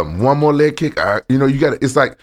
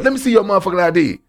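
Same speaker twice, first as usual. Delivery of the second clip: mimicking Yakuza guys; 9 semitones higher, faster than usual. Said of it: "That's how they talk".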